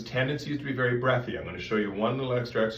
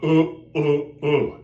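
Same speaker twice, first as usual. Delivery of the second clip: loud, thick grunted "uh", the wrong way; heavy, dense "uh"; 4 semitones higher, 7 dB louder, slower than usual. Shown as a demonstration. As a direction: push out heavy uhs. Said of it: "It can't be a heavy, dense sound".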